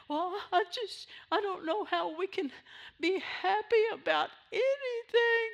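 mock a sour believer who can't be happy; whiny complainer. Preacher mocking a sour churchgoer, in a high whiny voice. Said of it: "I'm like, "Are you kidding me?".

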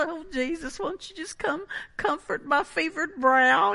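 high, soft hammed-up plea; mock pleading. Preacher imitating believers pleading with Jesus, mock pitiful. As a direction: play at begging pitifully for comfort. Mock needy prayer, acted out.

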